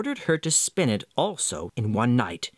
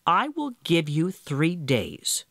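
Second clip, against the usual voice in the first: relenting little man; 3 semitones higher, slower than usual. Acted.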